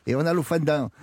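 "fondant" turned to "fan-dain", mock Alsatian; mock Alsatian accent. Teasing over an Alsatian fritter, hammed-up Alsatian accent. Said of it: "je le fais bien l'alsacien".

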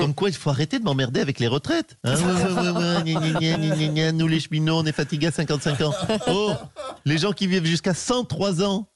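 lightly voiced mocking President, breezy and dismissive; a hint of the President brushing off pension worries; President impression. Impressionist plays the President to the radio host, lightly mocking. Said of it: "Et merci, Monsieur le Président".

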